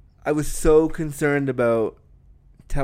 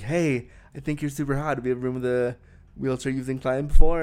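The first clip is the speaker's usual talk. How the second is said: breathy, coaxing question. Acted. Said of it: "move into your breathy voice".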